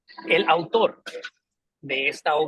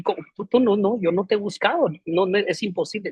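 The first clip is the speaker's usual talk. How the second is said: stunned denial; 5 semitones higher than usual. Acted. Leonardo protests to the prisoner, stunned and disbelieving. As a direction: sputter the denial, shaken. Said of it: "se asombró".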